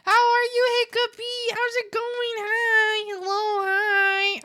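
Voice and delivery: high, loud, bubbly hellos; excited greeting. Real, not acted. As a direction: gush over the viewer. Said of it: "I got a little excited".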